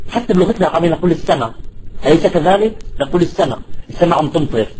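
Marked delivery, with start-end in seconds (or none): 1.1-1.5 colloquial "السماء" without the final hamza; hamza dropped. Shown as a demonstration. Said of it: "إذا بالحذف". 3.2-3.6 "السماء" said colloquially as as-sama; no glottal stop ending "السماء"; short open final vowel in "السماء"; hamza dropped. Shown as a demonstration. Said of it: "إذا بالحذف".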